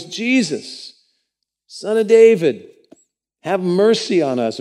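high, loud calling out for mercy; loud cry. A narrator's reading. Blind men shouting after Jesus, loud desperate cry. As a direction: cry out to be heard across the road. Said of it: "they cry out with a loud voice".

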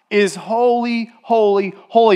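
"holy, holy, holy" each given its own punch; emphatic repetition. Shown as a demonstration. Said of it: "repeated three times because it's emphatic".

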